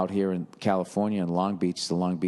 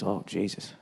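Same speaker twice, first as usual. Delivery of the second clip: ordinary delivery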